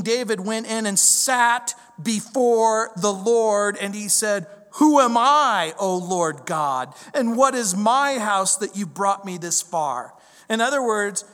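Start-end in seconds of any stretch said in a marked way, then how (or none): 4.7-10.1 put-on a touch of a child's wonder, louder; childlike wonder. David before the Lord, childlike wonder. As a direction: cry it out like an awed child. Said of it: "like a child".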